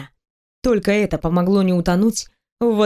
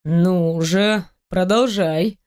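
velvety voice; 2 semitones lower, much slower than usual. Acted. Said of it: "бархатным голосом сказал он".

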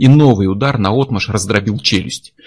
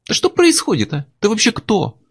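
sharp, high bewildered demand; angry demand; 12 semitones higher than usual. A narrator's reading. Miller at gunpoint demands who Chuck is, angry. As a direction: push him for answers.

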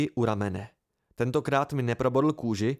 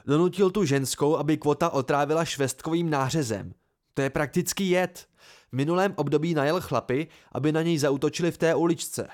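raised, insistent argument; exclaimed protest; 4 semitones higher, 4 dB louder than usual. Acted. Simon listing Ambrose's past attacks, mildly heated exclamation. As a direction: press the case, a touch heated. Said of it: "zvolal Simon".

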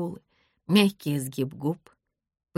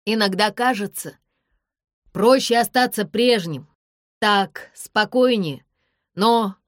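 louder, earnest shouting; loud plea; 4 semitones higher, 6 dB louder than usual. A narrator's reading. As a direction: call up sincerely. He shouts his heartfelt plea.

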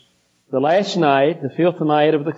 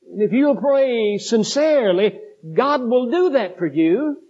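rising fervor; 5 semitones higher than usual. Real, not acted. Rising intensity in sermon.

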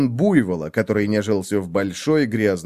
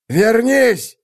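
loud, high desperate yell; frantic shout; 12 semitones higher, 5 dB louder than usual. A narrator's reading. Wolf yells at the swimming buffalo, frantically. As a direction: scream for the prey to return.

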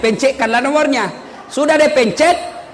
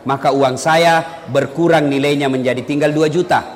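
normal talking voice

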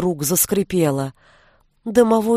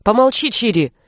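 mild bark; 3 semitones higher, 3 dB louder than usual. A narrator's reading. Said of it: "рявкнула Дара".

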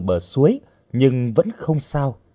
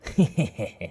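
softer mocking chuckle from a villain; villain's laugh; 6 dB quieter than usual. A narrator's reading. Stranger laughs at the captive's question, villainous chuckle. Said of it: "Người đàn ông lạ cười càng to".

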